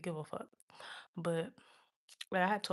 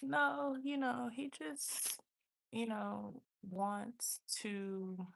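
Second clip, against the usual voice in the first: higher-pitched, hesitant excuse; naive protest; 4 semitones higher, much slower than usual. Retold or imitated. Speaker defending him as innocent to a friend, high and hesitant. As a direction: trail into slow, searching justification.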